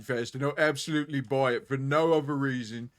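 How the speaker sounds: as if smuggling marbles in the cheeks; lightly voiced fair-goer character; Renfest voice. Shown as a demonstration. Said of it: "I'll talk to people like this at Renfest".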